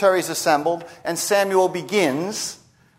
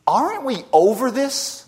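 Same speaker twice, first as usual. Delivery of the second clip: higher-pitched, mildly hammed-up complaint; exasperated crowd member; 4 semitones higher than usual. Imagined crowd member complains to Samuel about his sermons, mock exasperated. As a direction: protest as a fed-up listener, pitch riding up. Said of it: "You can imagine some in the crowd".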